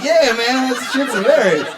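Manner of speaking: amused singer. Retold or imitated. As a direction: laugh it out as the singer. The singer voiced laughing.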